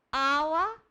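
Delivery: put-on high, loud toddler demand for water; loud babyish one-word whine; baby talk. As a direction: imitate a babyish little boy calling out. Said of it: "tratado em casa como um bebê".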